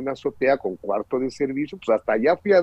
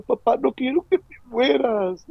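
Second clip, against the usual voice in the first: put-on much higher child's voice, falling at the end; child pleading; 9 semitones higher than usual. Son telling his father he doesn't want him to die, high child's plea. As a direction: beg like a frightened little boy. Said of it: "sus palabritas fueron".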